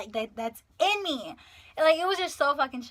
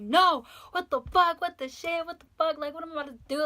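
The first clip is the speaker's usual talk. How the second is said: high-pitched retold freak-out; going crazy; 6 semitones higher, 5 dB louder than usual. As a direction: panic and refuse to be calmed. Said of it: "I was just going crazy".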